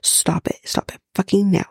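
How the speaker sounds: telling them off, half joking; mock scolding. Real, not acted. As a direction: scold the syrup chuggers. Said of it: "If anyone here is chugging".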